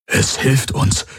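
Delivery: slow, astonished whisper; hushed disbelief. A narrator's reading. Hawks finishing Kirai's sentence, slow stunned whisper. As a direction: whisper it slowly, as it dawns on you. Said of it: "vollendete er und blinzelte mehrmals".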